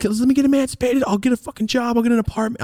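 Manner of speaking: high, desperate pleading to dad. Retold or imitated. Teen begging his dad to let him leave, high and pleading. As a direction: beg him, voice jumping up high.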